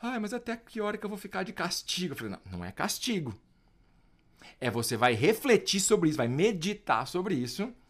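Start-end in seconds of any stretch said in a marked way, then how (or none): 0.0-2.1 put-on, high, weepy, tearful little kid's crying voice. Parent retelling what his kid asked while crying on the way, imitating a crying child. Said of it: "ele chorando no caminho, falou assim".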